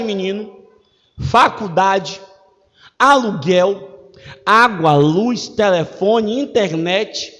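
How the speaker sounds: a prayer listing the bills, then thanks; demo prayer of faith. Shown as a demonstration. Preacher demonstrating the prayer of faith, mildly prayerful. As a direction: pray it out as a sample, confident at the end. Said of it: "A oração da fé é assim, ó".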